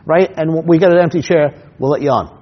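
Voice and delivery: high mock-friendly excuse, fading at the end; lightly voiced friendly brush-off; host fobbing him off. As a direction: let him down easy and chummy. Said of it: "He goes".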